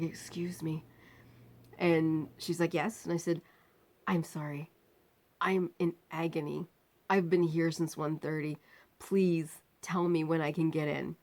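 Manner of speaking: soft, pained low voice; barely able to speak; weak and quiet. Retold or imitated. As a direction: narrator in agony asking the nurse. Weak patient at desk.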